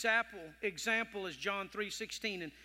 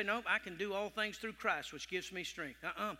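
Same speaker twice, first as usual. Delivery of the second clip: quiet self-encouragement; 3 semitones lower, 6 dB quieter than usual. Shown as a demonstration. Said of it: "you'll hear me say".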